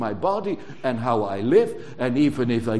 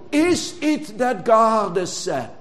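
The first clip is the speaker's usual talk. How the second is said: tempter's voice. Retold or imitated. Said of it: "He did that already in paradise".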